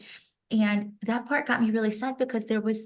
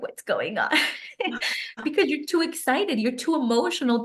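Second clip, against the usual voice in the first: imitated husband. Quoting husband seeing her cry.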